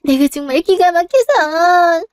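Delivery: exasperated complaint, dragging the last words; indignant. Acted. Mother calling her elder son in to hear this, indignant. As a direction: appeal for backup, thoroughly put out.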